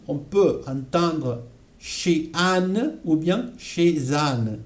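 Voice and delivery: chez Anne said with liaison, chez-z-Anne; linking the z sound into Anne; liaison demo. Shown as a demonstration. Teacher shows chez Anne linked for students. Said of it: "Alors ici".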